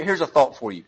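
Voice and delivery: usual speaking voice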